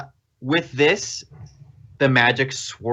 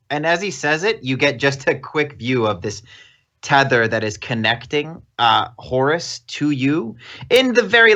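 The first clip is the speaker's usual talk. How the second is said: ordinary delivery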